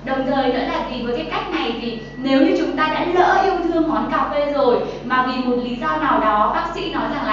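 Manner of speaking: ordinary talk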